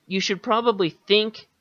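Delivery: mock-emphatic caps reading; all caps. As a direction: read it out as if in capital letters. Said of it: "in all caps".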